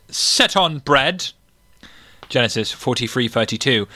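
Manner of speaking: measured scripture recital with lingering words; Bible reading aloud. Acted. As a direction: read out verses like a lay reader.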